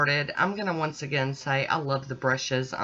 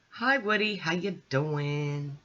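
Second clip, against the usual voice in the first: pet greeting; slower than usual. Real, not acted. Greeting her pet mid-video.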